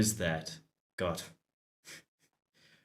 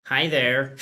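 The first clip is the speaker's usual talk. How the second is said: a hint of a chipper, wholesome greeting; lightly voiced friendly neighbor; sunny door-to-door hello; cheery Mormon neighbor; 3 semitones higher, 5 dB louder than usual. Shown as a demonstration. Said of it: "typical American Mormon voice".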